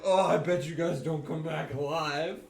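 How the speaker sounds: snarky mocking. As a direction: imitate a snarky doubter, drawn out. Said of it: "This guy's been snarky".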